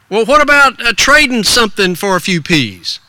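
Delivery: high, folksy proposal; lightly voiced shop owner; store owner. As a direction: suggest a trade like a kindly grocer. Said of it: "between Mister Miller, the store owner".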